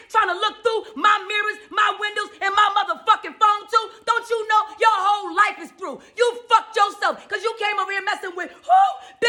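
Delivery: high-pitched, relentless cussing-out; demonstrating a heated tirade at unseen watchers. Shown as a demonstration. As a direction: cuss out whoever is spying through the mirror. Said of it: "you cussing them too".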